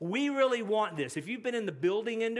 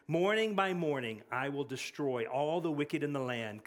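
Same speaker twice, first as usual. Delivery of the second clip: measured, solemn Bible reading; scripture reading; 3 semitones lower than usual. Acted. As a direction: read the psalm with reverence.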